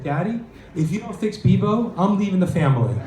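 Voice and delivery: a hint of a whiny daughter pleading with her dad; teen daughter.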